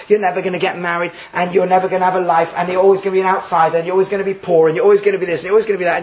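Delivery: each always stressed in a building list; a mock warning speech, always stressed each time; listing hardships. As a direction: hammer home every always. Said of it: "I'll make more explicit".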